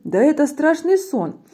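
high, put-on cry of dread; horrified exclamation. Gruffalo fears being eaten, horrified high wail. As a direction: wail it in mock horror.

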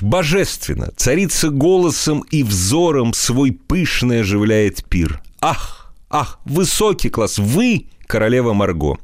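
high, gushing admirer's voice; a lightly voiced rapturous flatterer. Изнурёнков flatters the queen.

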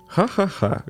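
high bursting laugh; burst of laughter. A narrator's reading. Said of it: "аж подпрыгнул на месте".

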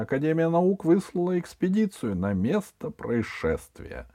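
high solemn broadcast voice; parody news anchor. Acted. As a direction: proclaim like a grand radio newsreader. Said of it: "торжественным голосом диктора".

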